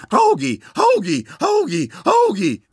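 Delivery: very high, loud repeated call; calling the bird. Retold or imitated. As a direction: yell for the bird across the room. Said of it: "börjar skrika". (mycket högt, högljutt rop på fågeln)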